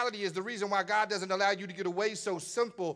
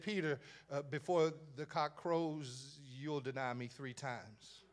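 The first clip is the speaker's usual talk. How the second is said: Jesus voice; 3 semitones lower, 5 dB quieter, slower than usual. Acted. Jesus voiced, slow and low.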